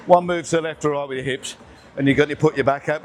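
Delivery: panting between words after a heavy set; out of breath. Real, not acted. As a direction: speak while catching your breath. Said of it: "as you can see from my breath now".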